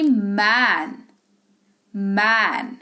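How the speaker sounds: मैन with a long "ae", "maaen"; lingering ae vowel. Shown as a demonstration. Teacher showing the vowel lingers, long held "ae". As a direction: hold the vowel of मैन slowly. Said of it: "वहां पर ठहराव ए के पास".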